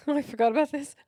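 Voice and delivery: amused realization; laughing. Real, not acted. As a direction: laugh as it comes back to you. Remembering something funny.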